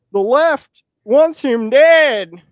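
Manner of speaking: high, loud, slow mock redneck accent; a hammed-up redneck drawl, imitating a riled-up boomer. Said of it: "I don't know why I'm doing a redneck accent".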